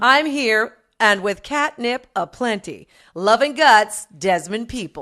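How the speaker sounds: lightly camped-up letter sign-off; a hint of a gay fan's voice; Desmond. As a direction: sign off slowly, with flourish. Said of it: "read it in Desmond's voice".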